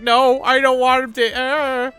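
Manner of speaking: put-on high squeaky child pleading no; baby voice. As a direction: play the fussy baby refusing. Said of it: "the baby's like".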